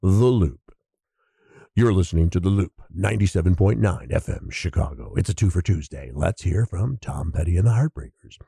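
smooth FM radio announcer; lightly voiced rock DJ patter. Shown as a demonstration. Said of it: "See, I'm doing my radio voice right now".

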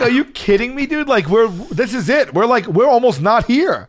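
high, exasperated comeback; retold incredulous protest. Dancer to heckler behind, retold incredulous protest. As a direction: protest in disbelief.

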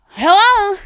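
high, loud bright hello; loud sing-song phone greeting; calling out hello. Real, not acted. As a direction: answer the caller with a shout. Answering call.

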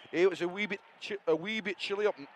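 tentative put-on Scottish accent. Showing how he gets into it, shaky attempt at Scottish accent. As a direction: have a faltering go at Scottish. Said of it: "this is how I get into a Scottish accent".

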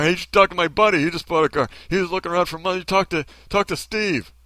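mock enthusiastic helper; eager helpful friend. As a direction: rattle off a keen referral. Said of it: "They'll introduce you to somebody".

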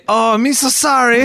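put-on high, loud caricatured Asian accent; drawn-out mock Asian-accented apology; hammed-up Asian accent, slow and high. Mock caricature apology teasing storyteller.

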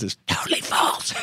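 playful shouted punchline; mock-indignant verdict, called out; mock outraged shout. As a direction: belt out "totally false" for laughs. Lawyer mock-denouncing guest's podcast claims.

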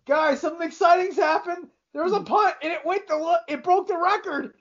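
mock excited announcer. Announcer mocking the game's lack of offense, in a hammed-up excited voice. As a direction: ham up the bored announcer faking excitement. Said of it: "he goes".

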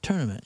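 "Tournament" as "TUR-nament". Shown as a demonstration. Friend testing "Tournament" the T-U-R-N way, as "TUR-nament". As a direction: start "Tournament" like turn. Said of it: "mine's T U R N".

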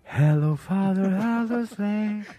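loud, drawn-out broken English; hammed-up broken English greeting; mock English. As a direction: belt it out in clumsy English, slow. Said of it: "escuchó".

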